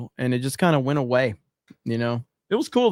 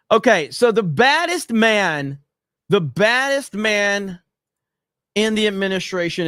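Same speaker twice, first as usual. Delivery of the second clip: hype introduction; 4 semitones higher, 4 dB louder than usual. Real, not acted. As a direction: hype it like a ring announcer. Hyping up the next clip.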